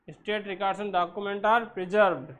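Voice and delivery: slow, spaced-out definition; slow dictation. Shown as a demonstration. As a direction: read it slowly so they can write. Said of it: "teacher dictating definition slowly".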